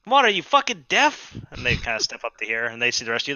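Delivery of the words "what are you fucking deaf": high, loud insulting snap; hostile squatter. Acted. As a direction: sneer at the stranger.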